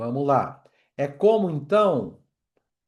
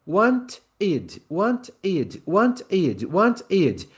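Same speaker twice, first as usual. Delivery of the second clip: higher rhythmic "want id" drill, picking up pace; speeding-up locomotive; 4 semitones higher, slower than usual. Shown as a demonstration. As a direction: chant "want id" with the gap closing. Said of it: "Vamos acelerar a locomotiva".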